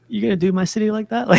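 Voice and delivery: quick mock outrage; mock offended. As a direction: call out HBO for trashing your city. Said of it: "I was like".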